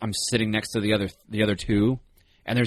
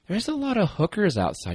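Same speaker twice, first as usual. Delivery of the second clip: quoting Summer; 10 semitones higher than usual. Retold or imitated. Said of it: "she's standing there and goes".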